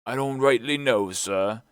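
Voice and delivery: lightly voiced sailor, "know" said plainly; a hint of a sheepish old sailor; sheepish sailor's answer. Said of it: "answered Morgan".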